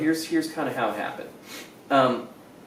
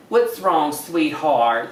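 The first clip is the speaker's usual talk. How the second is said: a light drawl of Texas concern; mock Texan caring voice; Texas sweetheart; much slower than usual. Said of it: "how they say".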